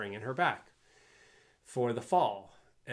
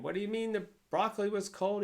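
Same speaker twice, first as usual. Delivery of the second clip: high, loud mock yell at the chef; furious yell; 10 semitones higher, 3 dB louder than usual. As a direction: shriek it like a furious restaurant owner. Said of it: "yelling and screaming".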